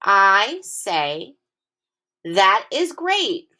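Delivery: slow, lifted "That is great"; excited exclamation again. Shown as a demonstration. Teacher repeating the sentence so kids hear the exclamation. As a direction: say it slowly with excitement. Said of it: "I will say it again".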